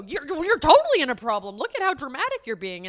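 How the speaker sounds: loud, pointed mock accusation. Husband mimicked accusing wife of drama, loud and mocking. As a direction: throw the blame back at her mockingly.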